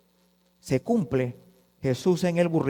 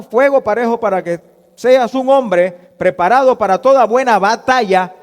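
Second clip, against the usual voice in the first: forceful preaching; 4 semitones higher, 8 dB louder than usual. Acted.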